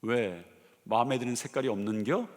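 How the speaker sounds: lightly imitating a Chungcheong policeman; Chungcheong accent. Preacher imitating a Chungcheong policeman teasing the stalled driver in Chungcheong accent. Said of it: "충청도 이 경찰 아저씨".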